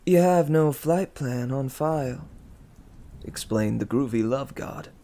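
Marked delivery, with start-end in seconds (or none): 0.0-2.3 higher, louder fake French accent retry; bad French accent. A narrator's reading. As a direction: another go at a hammy French accent. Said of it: "He had a French accent. So bad".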